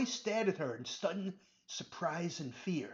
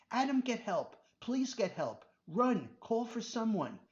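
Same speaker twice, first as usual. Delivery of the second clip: desperate scream; 5 semitones higher than usual. Acted. Robert trapped by the snakes, screaming for help. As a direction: beg for help in panic. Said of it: "Robert screamed".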